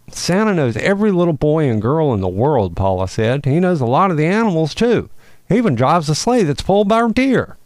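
chirpy superhero possum reassuring a lost deer; perky possum. Acted. Paula's high voice.

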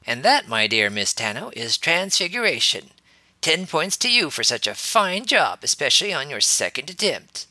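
high, loud, haughty and pompous; nose in the air, lofty praise; snooty voice. Acted. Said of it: "said in a very snooty voice".

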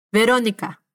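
Verónica with a soft B sound; Verónica, the V as a light B. Shown as a demonstration. Teacher demonstrating the soft B in a name, gentle. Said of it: "para una B más suave".

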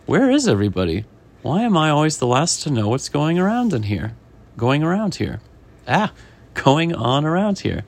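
acted exasperated complaint; put-out fish. Fish asking the chef where everyone is, mild exasperation.

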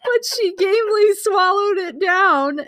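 high laughing near-shout. Real, not acted. Cracking up reading erotica.

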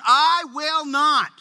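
slow, blunt refusal; defiant refusal. Retold or imitated. Son defying his father, a slow blunt refusal. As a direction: lean on every word of no. Son's flat refusal, slowed.

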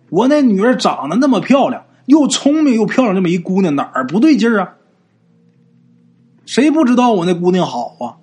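mildly heated, indignant retort; indignant, with some lift in pitch; a bit angry. Acted. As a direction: push back in a mother's defence. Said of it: "跟这老道就有点火了".

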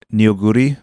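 food name said in a Japanese accent. Shown as a demonstration. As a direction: say nioguri the Japanese way. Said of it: "I'm saying that in a Japanese accent".

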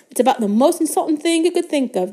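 high, strained indignation; gasping. A narrator's reading. Slug-sick Ron explaining an insult, high gasp. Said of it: "gasped Ron".

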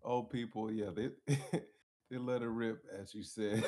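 talking through held-back laughter; trying not to crack up; stifled giggles. Real, not acted. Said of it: "I'm trying not to laugh too hard".

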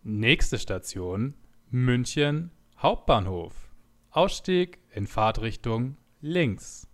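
slow, drawn-out station announcement; train announcer. Shown as a demonstration. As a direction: announce it like a Deutsche Bahn PA. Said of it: "die Deutsche Bahn-Ansage von einem Bahnhof".

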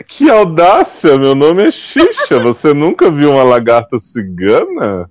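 Xuxa's outrage. Retold or imitated. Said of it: "Aí a Xuxa vai".

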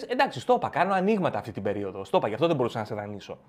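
low, rushed brush-off; excusing yourself to the friend, quick and low; hurried excuse. Acted. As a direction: rattle off the excuse fast and low. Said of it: "Λες".

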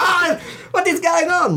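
put-on high, laughing Eurotrash accent. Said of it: "my generic Eurotrash accent".

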